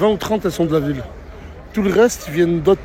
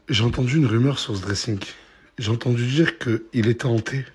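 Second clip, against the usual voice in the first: mad scientist; 9 semitones lower, 6 dB quieter than usual. Acted. Spooky host intro in the skit.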